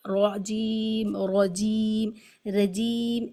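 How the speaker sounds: رجیم with a thin ra vowel; wrong light ra. Shown as a demonstration. Teacher imitating a common wrong ra. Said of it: "اس طرح نہیں پڑھنا ہے".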